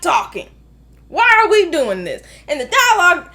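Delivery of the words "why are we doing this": loud disbelieving question; exasperated shout. Real, not acted. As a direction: throw up your hands and ask. Ranting about the movie.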